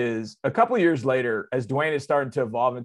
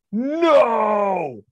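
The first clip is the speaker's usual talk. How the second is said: sudden loud, high cry of disbelief; shocked no; 8 semitones higher, 6 dB louder than usual. Retold or imitated. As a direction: blurt it out in shock. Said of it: "I look at him like".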